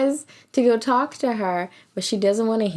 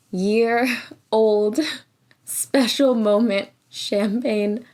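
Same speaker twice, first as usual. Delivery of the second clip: slow, laughing emphasis; amused drawn-out words; much slower than usual. Real, not acted. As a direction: laugh it out slowly. Laughing at the special bottle.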